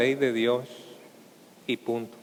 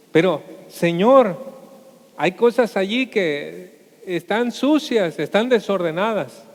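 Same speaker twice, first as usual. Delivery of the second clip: ashamed host pleading; 3 semitones higher, 3 dB louder than usual. Acted. Man ashamed before the Lord.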